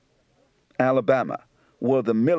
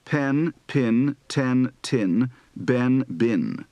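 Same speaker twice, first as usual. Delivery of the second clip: Southern pen-pin merger; much slower than usual. Shown as a demonstration. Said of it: "Southern accent practice for the I E shift".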